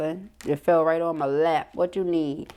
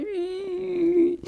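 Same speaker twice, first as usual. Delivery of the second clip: 1 droopy whine; 11 semitones higher than usual. Pretend. Imitates droopy sad sunflower.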